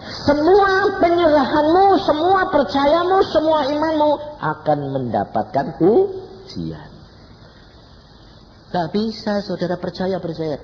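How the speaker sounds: very high, loud, drawn-out proclamation; forceful preaching. Real, not acted. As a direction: proclaim each phrase slowly at full force. Preacher declaring climax to congregation. (khotbah lantang, tinggi dan lambat)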